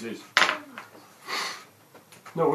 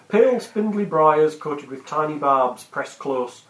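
scene narration. Acted. GM scene setting.

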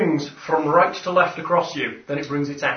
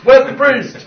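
high laughing question; 10 semitones higher, 12 dB louder, slower than usual. Real, not acted. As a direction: ask it through a laugh. Players joking, laughing question.

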